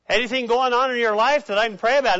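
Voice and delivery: mock concerned churchgoer; caring pastor. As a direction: press gently but eagerly. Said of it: "mask of spirituality".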